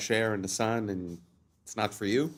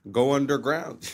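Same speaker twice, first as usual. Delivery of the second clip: mock sales pitch; 3 semitones higher, 5 dB louder than usual. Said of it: "subconsciously say".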